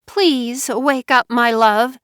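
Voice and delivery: high, slow pleading whimper. Acted. Wife waking her husband, high slow whimper. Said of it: "she whimpered".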